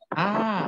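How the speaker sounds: a short, high pleased "ah"; a pleased little "ah" after a pinch; pleasured ah. Shown as a demonstration. Teacher demos a husband's "ah" when his wife pinches him. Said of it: "dijepit sama istrinya bilang".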